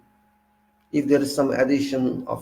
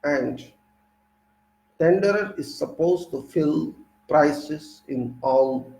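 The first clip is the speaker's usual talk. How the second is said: reading aloud; 3 semitones higher than usual. Real, not acted. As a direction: read the textbook passage to the class. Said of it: "So let me read first".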